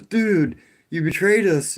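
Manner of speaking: loud, high-pitched imitation of an aggrieved viewer; mock a betrayed fan, high and loud; mock outraged viewer. Retelling a concerned viewer's complaint about the video, mock outrage. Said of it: "Like, one guy goes".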